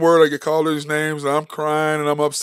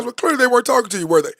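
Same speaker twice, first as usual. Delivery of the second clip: dad's wry question; 9 semitones higher, faster than usual. Retold or imitated. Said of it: "He goes".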